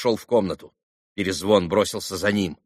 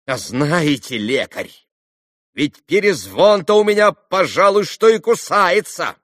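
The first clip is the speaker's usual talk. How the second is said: high, loud, shaking defiance; trembling angry voice; 7 semitones higher, 6 dB louder than usual. A narrator's reading. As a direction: spit the threat out pale with anger. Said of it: "задрожавшим голоском, побледнев и сверкнув глазами".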